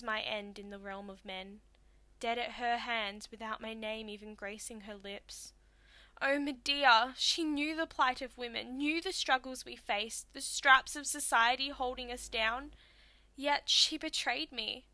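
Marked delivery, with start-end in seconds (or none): 6.2-14.9 loud, impassioned lament; anguished reproach. Acted. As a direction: cry out against a betrayer. Dead woman reproaches her betrayer.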